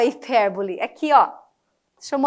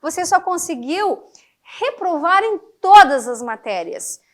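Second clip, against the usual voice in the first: ironic mother; 3 semitones higher than usual. Pretend. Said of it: "A mãe falando pro filho".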